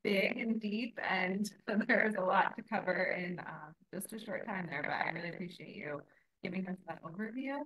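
robotic, glitchy call audio; sounding like a robot on the line. Real, not acted. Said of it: "oh, I sound like a robot".

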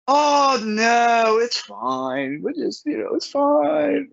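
lightly voiced waitress, high and breezy; high mock waitress voice. Waitress waving off his money, high breezy voice. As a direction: brush it off sweetly like a diner waitress. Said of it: "waitress brushing off payment".

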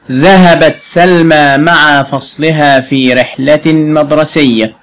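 slow, careful sentence reading; teacher reading the example sentence slowly; slow dictation. Shown as a demonstration. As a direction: read it out slowly for the pupil. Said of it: "teacher reads the sentence slowly".

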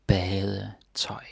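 word stretched out in parts; drawn-out pronunciation demo; slow teaching repetition. Shown as a demonstration. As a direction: model it slowly for learners. Teacher repeats the word slowly again.

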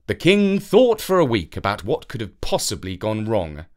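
plain reading voice

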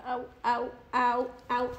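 soft repeated ows of pain; quiet little yelps; small ows. Real, not acted. Woman nipped by her dog, soft pained ows.

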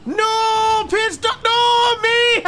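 high frantic cries; panicking gamer. Real, not acted. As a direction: yelp in panic. Panicked yells in game.

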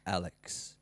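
low, heavy warning growl of a name; deep big-guy voice. Retold or imitated. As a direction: say the name like a huge bloke warning you. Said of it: "a big guy just says".

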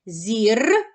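«Зірка» split as зір, long pause, ка; syllable by syllable. Shown as a demonstration. Teacher dividing the word for pupils, syllable by syllable. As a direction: break «Зірка» into two separate syllables. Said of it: "Поділимо слово на склади".

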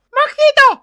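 loud, high yell of the name; angry summons. Acted. Mother catching the drunk at home, angry.

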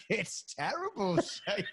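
high, drawn-out mock Dublin voice; Dublin accent. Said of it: "Your Dublin accent or something, you went".

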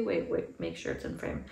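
hushed, voiceless aside to the camera; mock whispered aside. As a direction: drop to a whisper, as if off-mic. Mocked mom's aside to camera.

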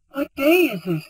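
surprised. A narrator's reading. Sudden question in woods.

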